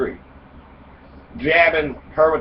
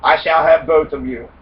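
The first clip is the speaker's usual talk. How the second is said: a louder, bold declaration; bold exclamation; 5 dB louder than usual. Acted. Prince boldly tells both wives, bold exclamation. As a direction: proclaim it like a self-satisfied prince. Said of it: "boldly exclaims".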